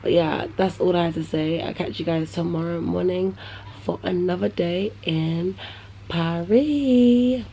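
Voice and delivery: talking with a retainer in; slightly lisped s sounds; wearing a retainer. Real, not acted. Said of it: "If I'm talking a bit funny, it's 'cause I got my retainers in".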